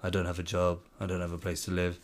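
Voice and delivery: soft, subdued confession with no sobbing; understated acted grief, voice dropped quiet; imitated sorrow. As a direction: play a broken man quietly admitting it. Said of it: "he's weeping".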